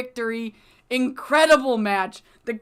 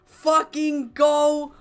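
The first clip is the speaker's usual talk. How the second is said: excited yelling; 5 semitones higher, 4 dB louder than usual. Real, not acted. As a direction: lose it completely over the match result. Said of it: "I'm sorry, I'm excited".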